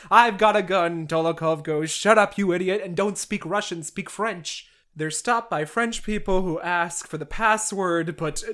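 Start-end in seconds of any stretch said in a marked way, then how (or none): 0.1-1.1 loud mock bravado; defiant boast. Petya tells Dolokhov he won't be captured, defiant. 1.9-4.7 lightly acted irritated telling-off; scolding. Dolokhov orders Petya to stop speaking Russian, scolding.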